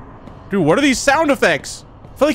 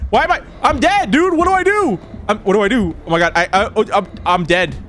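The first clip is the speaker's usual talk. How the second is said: panicked. Real, not acted. Chased by monster in game.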